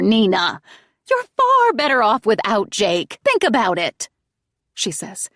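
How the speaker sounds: a hint of a wheedling mother; coaxing mother. A narrator's reading. Mother justifies the killing.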